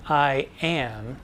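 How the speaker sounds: light "I", then a longer, weightier "am"; "I am" as one iambic foot, emphasis landing on "am"; stress on AM. Shown as a demonstration. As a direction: lean on "am" as the strong beat. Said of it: "putting the emphasis on am".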